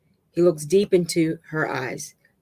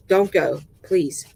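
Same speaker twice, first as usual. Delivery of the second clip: mild pleading, loud at the start; tearful plea; 4 dB louder, slower than usual. A narrator's reading. River clinging to Dave, mildly tearful pleading. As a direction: plead with a touch of tears. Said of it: "she pleads, crying".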